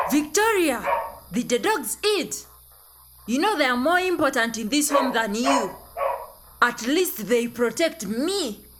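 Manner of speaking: mock scolding scream. Father berating daughter over the dogs, mock screaming scold. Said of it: "only to hear you screaming".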